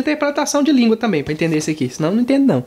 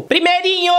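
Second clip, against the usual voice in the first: retold shout; 6 semitones higher than usual. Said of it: "alguém gritou".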